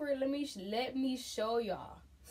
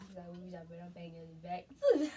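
stifled giggles; 6 semitones lower than usual. Real, not acted. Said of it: "It's just funny with him".

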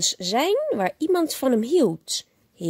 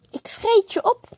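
monster growl; 9 semitones higher than usual. A narrator's reading. Max threatens his mother.

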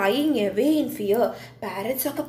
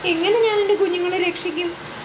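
worried mother; 4 semitones higher than usual. Acted. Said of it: "cried aloud".

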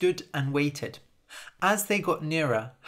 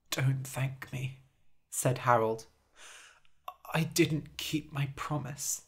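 weak, regretful; 5 dB quieter than usual. Acted. Dying Harold tells Jasper he failed, weak soft voice. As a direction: speak as strength leaves.

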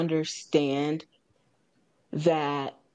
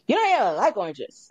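mock near-yell, pitched higher; raised-voice retort, half-hearted yell; retold near-yell; 4 semitones higher, 4 dB louder, faster than usual. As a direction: imitate someone almost yelling at you. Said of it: "Almost yelled at me".

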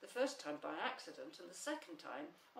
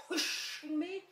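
high, loud disbelief rising on the question; surprised; 10 semitones higher, 8 dB louder, slower than usual. A narrator's reading. Eeyore repeating what he was told, very surprised. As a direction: repeat it as an astonished, indignant query. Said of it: "said Eeyore in surprise".

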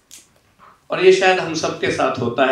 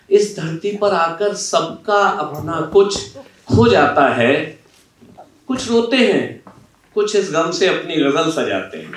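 poem recitation; 3 semitones higher than usual. Acted. Interviewer opening the session with verse, recited. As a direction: recite the lines as poetry for the audience.

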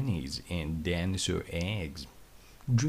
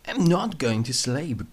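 calling out; 6 semitones higher, 5 dB louder than usual. Acted. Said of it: "calls out Thunderbolt".

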